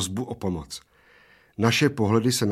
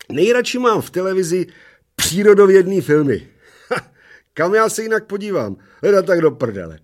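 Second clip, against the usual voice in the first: contented mumble; 10 semitones higher, 8 dB louder than usual. Acted. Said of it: "spokojeně si hříhnul a zahuhlal".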